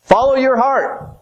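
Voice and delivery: high, sweet tempting voice; high mocking voice of worldly wisdom. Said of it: "The world will say".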